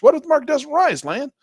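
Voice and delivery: high, loud doubting question; skeptical viewer voice. Pretend. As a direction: play a doubtful student asking.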